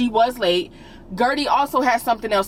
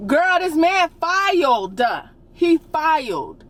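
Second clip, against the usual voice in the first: higher and slow, spelling it out in disbelief; incredulous emphasis; 5 semitones higher, slower than usual. Real, not acted. Vlogger to viewers, stressing the obvious in disbelief. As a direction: lean on it like it's obvious. Incredulous rant about the husband filing.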